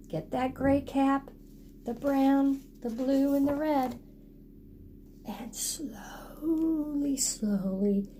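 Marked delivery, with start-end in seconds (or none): 5.3-8.1 slow, drawn-out telling; slow close of the story; slowly. A narrator's reading. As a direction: stretch the word out.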